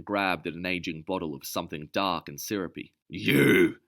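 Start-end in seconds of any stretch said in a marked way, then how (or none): 3.1-3.8 sudden loud outburst, pitched up; angry shout of recognition; cried out. Acted. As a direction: hurl the word at him in fury. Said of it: "she cried".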